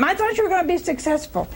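a light mock of a nagging wife; nagging wife complaining to her husband, fast and high; nagging spouse. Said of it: "who keeps nagging all the time".

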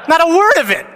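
high, loud laughing quip. Real, not acted. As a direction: laugh through the punchline. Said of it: "laughing punchline".

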